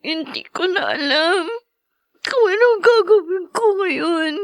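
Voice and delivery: lost and tearful, voice catching; weeping helplessly at her mother's memory; crying. Acted. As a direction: speak through the tears. Grieving child at mother's memory.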